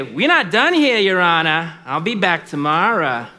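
serve notice on the judge as the widow; defiant widow. Acted. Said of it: "She would look up and say".

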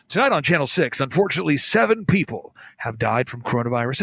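lightly voiced solemn newsreader, dropping low at the end; mock-grave evening news read; a hint of a somber TV anchor; fake sentimental news anchor. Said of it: "fake sentimental voice".

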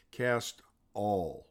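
weight on "all" in "Cast all"; stress on all. Shown as a demonstration. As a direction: lean on the word "all" as the point. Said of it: "the word I would like to emphasize".

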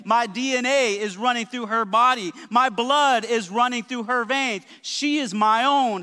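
emphatic, rhythmic preacher delivery; preaching. Real, not acted. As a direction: preach it with building conviction. Preaches at full force.

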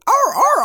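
high yelping arr arr; dog yelp imitation. Father imitating the yelp of a stepped-on dog. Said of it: "sounded like a dog yelping".

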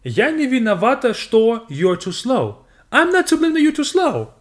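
high, mock-innocent excuse; hammed-up high-pitched denial; acted self-defence. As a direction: plead not guilty in a high voice. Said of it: "And you can say".

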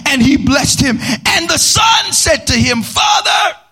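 hammed-up scripture reading; theatrical reading. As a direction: read it like a stage play. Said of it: "I feel like reading this theatrically".

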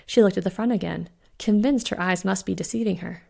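ordinary delivery, nothing marked

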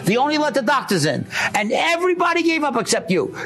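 lightly voiced grateful husband. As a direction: tell him what you saw from behind the glass.

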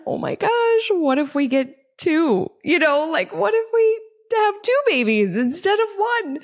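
high, gushing burst of excitement; excited squeal. Retold or imitated. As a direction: squeal the idea like it's the best news ever. Excited idea of getting two puppies.

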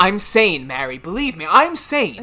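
desperate. Acted. Daryl insists desperately.

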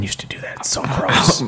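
disgusted whispered aside. Real, not acted. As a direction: hush it out like a gross secret.

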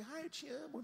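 high, airy mock "eu te amo"; a hint of a syrupy lover; mock love declaration. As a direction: toss off a shallow "I love you". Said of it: "as pessoas falam assim".

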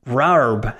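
"Rarb" stretched out with a heavy r; exaggerated local pronunciation. Host jokingly reuses the listener's name, exaggerated "Rarb". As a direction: lean on the r in "Rarb". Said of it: "or as we say it over here".

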